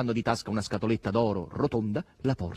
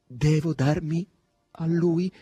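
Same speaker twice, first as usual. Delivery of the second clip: slow, raised, pondering question; pensive; 7 semitones higher, 5 dB louder, slower than usual. A narrator's reading. Margherita weighs the stranger's invitation, pensive. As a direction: think it through aloud, slowly. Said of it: "disse pensierosa Margherita".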